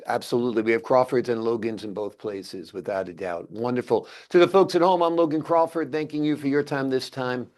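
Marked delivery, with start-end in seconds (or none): 4.3-7.5 show sign-off. Real, not acted. Host closing the show to folks at home, announcer sign-off. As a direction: sign off to the audience, easing down to the end.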